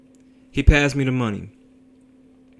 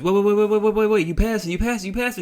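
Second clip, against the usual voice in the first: rapid, high-pitched, loud string of alarm; frantic passenger; 11 semitones higher, 5 dB louder, faster than usual. Retold or imitated. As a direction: urgently stop the driver, pitched way up. Passenger frantic as car passes stop.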